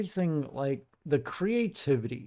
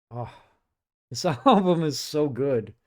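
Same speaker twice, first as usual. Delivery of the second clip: laughing and louder, thrilled; excited; 5 dB louder than usual. Real, not acted. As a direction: gush with a laugh. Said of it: "I'm getting so excited".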